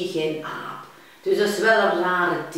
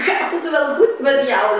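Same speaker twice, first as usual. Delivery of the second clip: laughing sheep; 7 semitones higher, 9 dB louder than usual. Acted. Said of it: "lacht het schaap".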